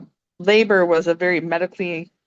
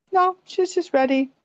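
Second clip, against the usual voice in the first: calmly; 9 semitones higher than usual. Retold or imitated. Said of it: "Just so calmly".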